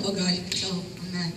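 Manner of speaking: laughing through it, caught being grumpy; laughing admission. Retold or imitated. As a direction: admit it while giggling. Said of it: "he's picking at me".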